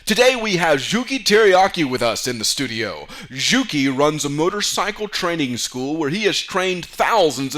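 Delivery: upbeat studio host intro; cheery host opening; talk show host. Acted. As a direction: welcome the guest like a TV host.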